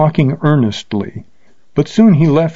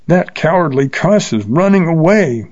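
derisive yell; 6 semitones higher than usual. A narrator's reading. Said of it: "yelled Bill derisively".

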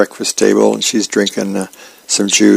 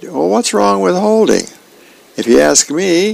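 1 mild protest; 8 semitones higher than usual. A narrator's reading. Son answers his yelling dad.

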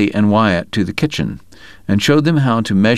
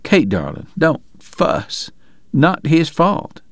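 weak but pleased; 8 semitones higher, slower than usual. Acted. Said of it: "sounding pleased to see him".

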